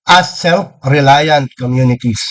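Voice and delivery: "self-reliant" said slowly, each part weighed; stress on self-reliant. Real, not acted. Lecturer to local officials, slow stress on "self-reliant". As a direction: lean on "self-reliant communities" unhurried. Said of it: "So I emphasize the word".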